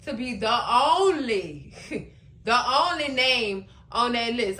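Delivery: amused retelling; laughing through it. Retold or imitated. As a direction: quote broken by giggles. Retold boast said through laughter.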